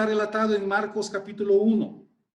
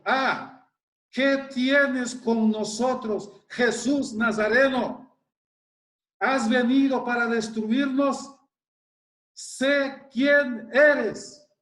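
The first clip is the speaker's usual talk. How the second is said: demon crying out; 3 semitones higher, much slower than usual. Acted. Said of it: "gritó en voz alta".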